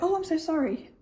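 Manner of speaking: polite apology. Retold or imitated. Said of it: "I'll be like".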